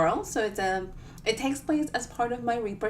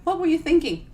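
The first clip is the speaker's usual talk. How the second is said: higher and louder, laughing through it; laughing mock question; 6 semitones higher, 5 dB louder than usual. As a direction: tease yourself while laughing. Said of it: "everybody was going".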